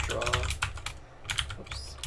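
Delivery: usual speaking voice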